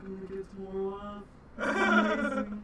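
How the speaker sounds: a touch of glee rising at the end; gleeful guard; happy orc. Acted. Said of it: "being like".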